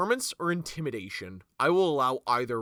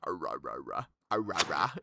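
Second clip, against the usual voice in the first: deep zombie groans; low guttural undead growl; 11 semitones lower, 4 dB quieter than usual. Shown as a demonstration. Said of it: "give me the best undead noise".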